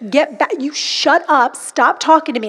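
firm command to back off; re-enacted stern rebuke; rebuking a spirit. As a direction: order fear away, drawing the words out. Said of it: "it's okay to talk like this".

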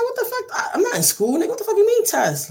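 very high, incredulous protest; retold indignant disbelief. Retold outraged reaction to being tested.

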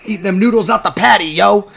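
imitating jive talk. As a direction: ham up the seventies slang. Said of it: "he's like".

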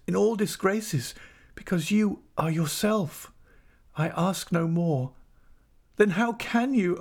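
high, imploring wife; heartfelt high-pitched entreaty; anguished pleading. A narrator's reading. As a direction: implore them in a high, distressed voice. Wife begs husband to love her.

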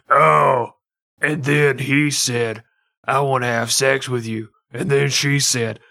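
breathy then booming audiobook narrator; mock audiobook narration, ending in a shout; girl voice. Shown as a demonstration. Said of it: "your girl voice".

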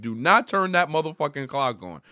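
imitating Spike's tough New York comeback; light mock New York defiance; Brooklyn attitude. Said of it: "the most New York, the most Brooklyn response".

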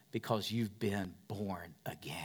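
intimate whisper; hushed truth for the congregation. Acted. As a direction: lean in and whisper it. Tender core point of sermon.

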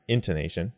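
"Intonation" with the first syllable IN stressed. Shown as a demonstration. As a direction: put the weight on IN at the start of "Intonation". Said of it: "That int is in it".

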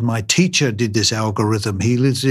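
lightly imitated Hungarian accent, lifting towards the end. Surgeon quoting a Hungarian mathematician's reply, light imitated Hungarian accent. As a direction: retell it with a hint of Hungarian accent, building to the punchline. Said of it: "he said in his wonderful accent".

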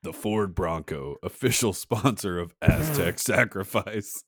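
slow mock announcer delivery; mock ad read. Podcaster improvising a car ad for Aztecs, mock announcer. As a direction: sell it like a car commercial.

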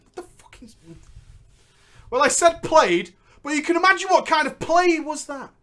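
ordinary talk

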